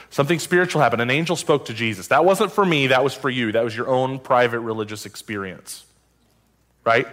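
mock dismissive. Voicing culture's dismissal of the angel.

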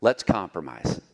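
tempting Satan. Acted. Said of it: "That's what he's asking you to do".

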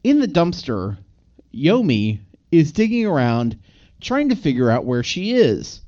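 measured read-out in separate phrases; deliberate recital of written recap notes; reading notes aloud. Real, not acted. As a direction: read it word for word, pausing between chunks. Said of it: "let me read exactly what I wrote".

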